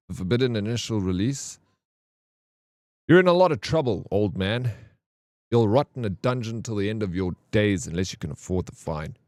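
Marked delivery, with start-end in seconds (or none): 3.1-9.2 put-on bully the old man with the fine; hammed-up corrupt guard; guard's threat.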